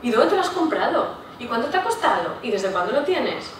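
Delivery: curious eager questions. Shown as a demonstration. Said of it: "solemos hacer más preguntas".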